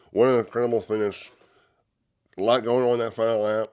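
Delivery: excited. Real, not acted. Reacting to the finish.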